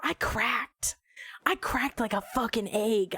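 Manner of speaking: whispered confession. Real, not acted. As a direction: breathe it out as a whisper. Confessing she broke under pressure.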